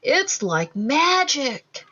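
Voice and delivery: slow, hushed wonder; awed gasp. Acted. Dad seeing the candlelit sheet, slow awed wonder. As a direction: breathe it out in amazement. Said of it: "gasped Dad".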